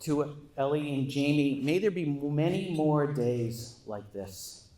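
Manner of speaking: slow, sincere toast to the couple; heartfelt toast. Real, not acted. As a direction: raise the glass with warmth. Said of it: "raise a glass".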